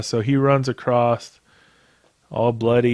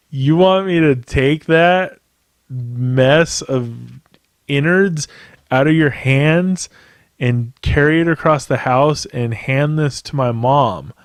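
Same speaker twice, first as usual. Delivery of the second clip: incredulous; 3 semitones higher than usual. Retold or imitated. Son balking at carrying deer innards to mom, incredulous. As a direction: stretch it out in shocked disbelief.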